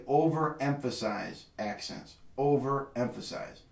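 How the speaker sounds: slow, drawn-out "overemphasize"; deliberate, weighty "Overemphasize"; stress on OVEREMPHASIZE. Shown as a demonstration. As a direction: stretch out "overemphasize" to drive it home. Teacher driving home a key point.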